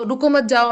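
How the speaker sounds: रुको मत जाओ in one unbroken phrase; no break after रुको; no comma pause. Shown as a demonstration. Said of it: "तो वो".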